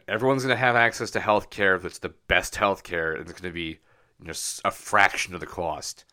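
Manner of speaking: Boston accent, Trump impression. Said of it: "I just gave him a Boston accent".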